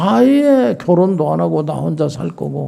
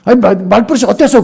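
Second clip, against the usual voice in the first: higher-pitched, argumentative retort; acted defiant backtalk; 6 semitones higher, 4 dB louder, faster than usual. Student arguing back at the teacher, acted defiant retort. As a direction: play a student answering back indignantly. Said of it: "그러고 막 대들고 싸워요".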